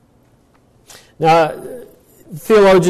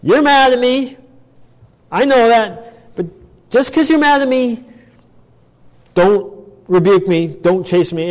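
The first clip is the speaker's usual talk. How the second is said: David pleading; 7 semitones higher than usual. Retold or imitated. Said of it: "he starts right off the bat".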